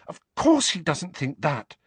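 high, anxious reassurance. A narrator's reading. Hermione reassuring Harry he is trusted, anxious. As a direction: rush to reassure, pitched high. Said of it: "said Hermione anxiously".

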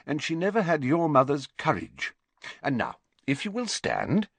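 a hint of a grave old teacher; lightly voiced wise headmaster. Headmaster urging Harry not to judge her harshly, measured.

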